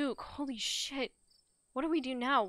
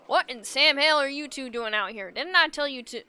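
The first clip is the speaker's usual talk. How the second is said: angry scolding; 5 semitones higher, 10 dB louder than usual. Acted. Farmer scolds intruders.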